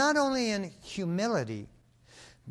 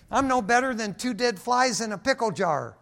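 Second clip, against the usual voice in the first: biker saying; 7 semitones higher, 7 dB louder than usual. Retold or imitated. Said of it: "my biker buddies used to say".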